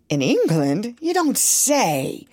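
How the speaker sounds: a drawn-out amazed exclamation; surprised cry. Acted. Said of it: "cried the doctor".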